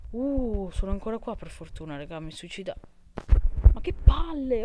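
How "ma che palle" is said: loud, high exasperated shout; angry outburst. Real, not acted. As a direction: vent the frustration loudly. Game frustration outburst.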